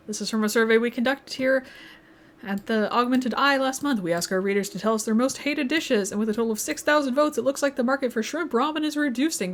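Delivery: projected news report read; put-on newscaster delivery. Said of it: "Should I do this in the newscaster voice again?".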